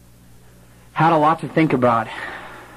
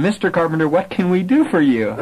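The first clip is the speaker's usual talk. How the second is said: amused trainer; 7 semitones higher than usual. Retold or imitated. Retold trainer on phone.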